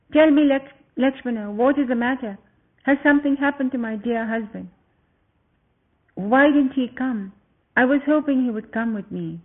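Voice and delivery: put-on a young queen teasing then worrying; Sita's voice.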